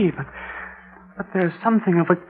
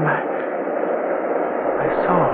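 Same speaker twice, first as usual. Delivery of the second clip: awed whisper; 3 semitones lower, 8 dB quieter than usual. Acted. Fisherman sees his shadow.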